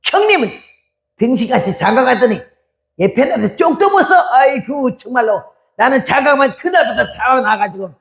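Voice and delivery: younger brother griping, pitched high; mock the kid brother's indignant complaint; lightly voiced younger brother, high and mocking; brother complaining. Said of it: "막내 오빠는 또 이래요".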